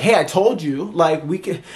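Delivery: hint of an indignant child; talking like a kid. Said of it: "she's talking like a kid".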